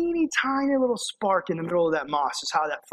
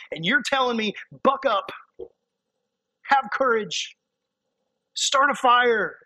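put-on higher, whiny voice of a discouraged young preacher; Timothy protesting to Paul, pitched up and complaining; imitating discouraged Timothy; 5 semitones higher than usual. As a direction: play Timothy pleading he's worn out.

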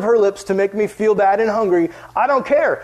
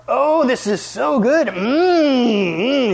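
savoring food; 6 semitones higher, 3 dB louder, much slower than usual. Retold or imitated. Sister smacking lips over food.

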